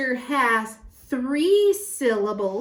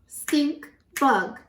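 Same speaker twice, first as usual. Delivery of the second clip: "Stink" and "bug" as two separate beats; syllable by syllable; 4 semitones higher than usual. Shown as a demonstration. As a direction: count out "Stink bug" with a pause between. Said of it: "let's count out the syllables".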